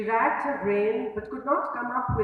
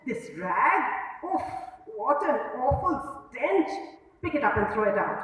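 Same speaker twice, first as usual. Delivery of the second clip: disgusted; 3 semitones higher than usual. Acted. Disgusted at his handkerchief.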